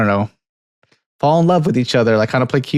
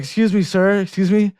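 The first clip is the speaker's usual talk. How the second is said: Wawa employee; 7 semitones higher than usual. Retold or imitated. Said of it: "he's like".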